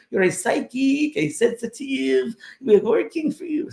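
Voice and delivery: high-pitched spirit giving a prophecy; a high French spirit voice prophesying to James. Retold or imitated. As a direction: foretell his future like a kindly French spirit. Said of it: "It was a Frenchman".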